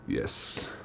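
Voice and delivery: whispered. Real, not acted. Pleased at Moltres card.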